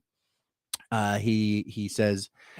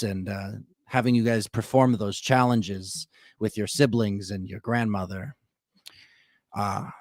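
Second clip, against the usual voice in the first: evil villain monologue; 3 semitones lower than usual. Acted. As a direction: gloat like a villain revealing his plan. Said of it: "This is like an evil villain monologue".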